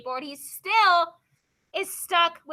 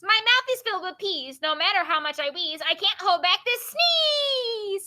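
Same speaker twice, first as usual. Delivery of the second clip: poem reading; 3 semitones higher, 4 dB louder than usual. Acted. Teacher reads the pea poem to class, expressive poem reading. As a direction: build up to a long, stretched sneeze.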